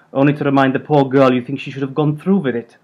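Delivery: lightly voiced Hungarian grandmother; Hungarian accent. A narrator's reading. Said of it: "held on to her accent".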